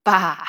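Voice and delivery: drawn-out "ba" bleat; imitated sheep bleat. Retelling a toddler's sheep sound, imitated bleat. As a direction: bleat a long "ba" on its own. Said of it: "it's not meh".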